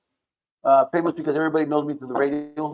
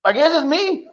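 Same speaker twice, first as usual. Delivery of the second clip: retold self-reveal; 12 semitones higher, 4 dB louder than usual. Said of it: "I go, Well".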